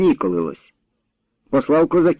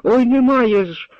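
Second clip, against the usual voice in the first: put-on high, slow keening for the lost girl; wailing lament; 10 semitones higher, slower than usual. A narrator's reading. Grandmother wails over her missing granddaughter. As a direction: draw the grief out as a folk lament. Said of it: "Не скигли".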